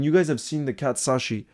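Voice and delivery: ordinary delivery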